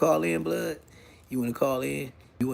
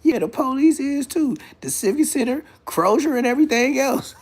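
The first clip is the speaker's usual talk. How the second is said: laughing; 9 semitones higher than usual. Real, not acted. Laughing, high voice.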